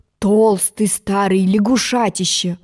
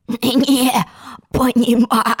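drawn-out rasping croak; hoarse frog; 2 semitones higher, slower than usual. Acted. Frog echoing Alice's words, hoarse drawn-out croak. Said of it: "хрипел лягушатище".

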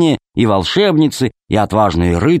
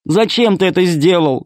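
crying; 7 semitones higher than usual. A narrator's reading. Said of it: "ревела Алиса".

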